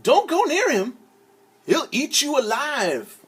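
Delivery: high, loud panicked yell; yelled warning. Acted. Townspeople yelling to the boy to stay away. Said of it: "The people yelled".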